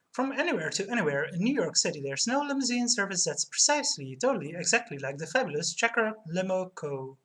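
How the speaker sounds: upbeat radio commercial read. Acted. Streamer reading a taxi ad aloud, upbeat commercial voice. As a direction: sell the limo service like a radio spot.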